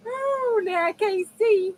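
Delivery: high, squeaky from laughing; laughed to tears. Real, not acted. Streamer saying she can't see, weak with laughter. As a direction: speak out of a laughing fit.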